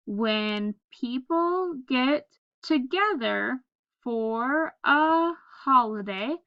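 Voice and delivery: slow, word by word read-aloud; unhurried reading to children; slow choral reading. Shown as a demonstration. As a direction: read it out slowly with the class. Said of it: "Let's read it together".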